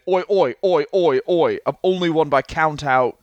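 lightly put-on British lout accent; British hooligan accent. Wrestler as British hooligan complaining, put-on accent. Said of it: "Is that a good accent?".

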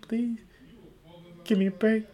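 mock desperate pleading to the sister; begging. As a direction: beg the sister over and over. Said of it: "I was begging".

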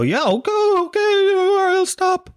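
very high, squeaky frightened voice; a terrified child giving in to the man; terrified kid. Pretend. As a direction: squeal it like a scared little boy. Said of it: "was gonna go".

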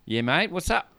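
casual Kiwi phone answer; lightly put-on New Zealand accent, rising at the end. Peter Jackson answering a prank call, New Zealand accent. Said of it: "I love your New Zealand accent".

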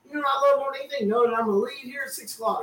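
mildly sarcastic quote, quick at the start. Retold or imitated. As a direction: imitate someone with dry sarcasm.

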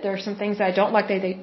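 rushed, tumbling speech; quick, getting ahead of yourself; talking too fast. Real, not acted. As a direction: rush ahead and trip over the words. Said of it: "I'm talking too fast".

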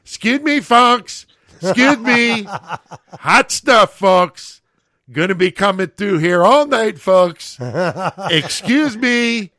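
high loud sing-song busboy call; Freddie's nasal call. Retold or imitated. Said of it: "you could hear his voice".

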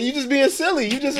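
high-pitched imitation of an older woman; gently chide, in a high grandma voice; imitated soothing grandma. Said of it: "calm me down".

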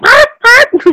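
quick high monkey hoots; monkey chatter. Shown as a demonstration. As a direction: make the monkey noises. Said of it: "making the noises like".

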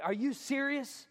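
acted astonished churchgoer, stretching the words; blown away. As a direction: ask it slowly, in amazed disbelief. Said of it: "I want them to be blown away".

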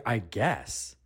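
full-voiced, questioning "I guess"; acted offence at a grudging answer; indignant echo. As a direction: throw the words back in disbelief.

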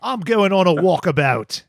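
hammed-up Aussie accent; attempted Australian accent. Shown as a demonstration. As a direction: play up a broad Australian twang. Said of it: "let me hear your best Australian accent".

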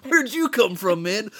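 high, loud and excited, laughing through it; goofy excited voice. Acted. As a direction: play it like a giddy victim greeting a clown. S1 mock clown greeting scene.

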